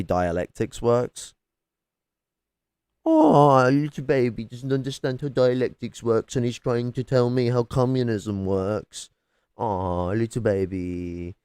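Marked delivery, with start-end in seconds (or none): 3.1-9.1 mocking coo at a grown man. Real, not acted. Streamer mocking a debater in chat, condescending coo. 9.6-11.4 slow, cooing mock sympathy; mock pity. Real, not acted. Streamer pitying a debater, slow mocking coo.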